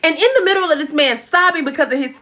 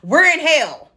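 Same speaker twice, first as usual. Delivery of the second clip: mock scream; 3 semitones higher, slower than usual. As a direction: shout "We're in hell" upward. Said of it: "he screams to whatever whiz".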